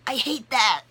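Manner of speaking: high, loud outburst; exasperated shout. Acted. Fed-up client on nodding therapists, exasperated shout. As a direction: burst out in sheer exasperation.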